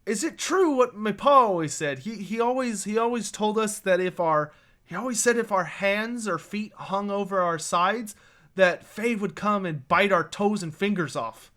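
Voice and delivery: lightly voiced awestruck boy, tripping over restarts; starstruck kid. Boy asks the Fae about pa's tale, mildly starstruck. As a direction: ask with a touch of childlike wonder. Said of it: "seems kinda starstruck".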